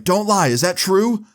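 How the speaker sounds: high-pitched insistent demand; imitated stern mom. Mom confronting Kyle about the bottle, imitated high insistence.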